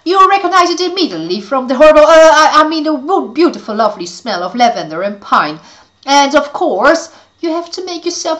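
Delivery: high, loud scheming witch; sly witch covering a slip. Acted. Caligula witch voice, false sweetness.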